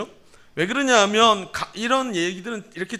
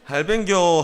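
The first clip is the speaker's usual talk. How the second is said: brief greeting in Gyeongsang accent; Gyeongsang dialect; 4 dB louder, slower than usual. Shown as a demonstration. Pastor shows greeting to a grandfather, Gyeongsang accent. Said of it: "경상도 말로 어떻게 하죠?".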